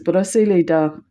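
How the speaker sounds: plain French words out of the blue; casual French command; French phrase. Retold or imitated. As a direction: say it matter-of-fact in French. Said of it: "she says".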